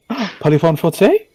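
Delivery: whispered French, teasing; mock French whisper. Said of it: "speaking French now".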